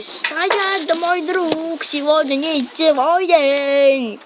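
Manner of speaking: slow, high mock robot voice; rusty robot. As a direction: play a clunky toy robot. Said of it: "как можно изобразить звуки робота".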